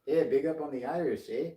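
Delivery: put-on a light Canadian accent slipping in; a touch of Canadian on the eh. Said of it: "That's Canadian".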